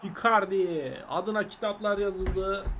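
slow mock-epic tribute announcer; mock goal celebration. Gamer hamming up a goal celebration for Icardi, slow mock-epic. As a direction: read it like a grand legend's tribute, slowly. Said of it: "Gol sevinci yapacağız bu arada".

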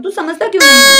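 put-on tearful plea to the boyfriend; mock sobbing question; crying plea. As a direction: plead through tears. Pleading love, crying.

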